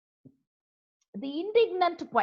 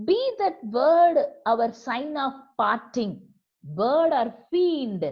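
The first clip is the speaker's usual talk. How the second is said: louder, stretched-out angry line; forceful angry reading, drawn out at the end; indignant cry; 4 dB louder, slower than usual. Acted. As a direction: hurl the words at the bird. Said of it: "became angry in his indignant manner".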